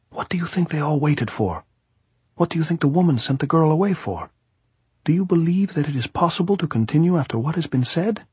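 high-pitched, pressing gypsy voice; insistent gypsy. A narrator's reading. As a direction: press the point as the gypsy plotter.

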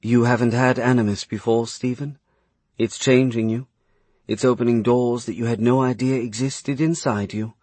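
lightly voiced woman, calm and reassuring; gentle young woman. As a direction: soothe him as he suffers. Her gentle character voice.

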